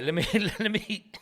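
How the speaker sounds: talking through fits of laughter; can't stop laughing. Real, not acted. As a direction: try to speak while cracking up. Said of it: "I can't stop laughing".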